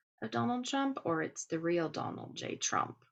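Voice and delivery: ordinary talk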